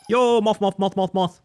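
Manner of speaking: high, loud excited calling out. Real, not acted. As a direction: call out to the moth, thrilled.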